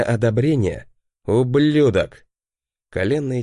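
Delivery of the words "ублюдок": slow, loud curse; spat curse. A narrator's reading. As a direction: spit the word out in fury. Furious inner curse.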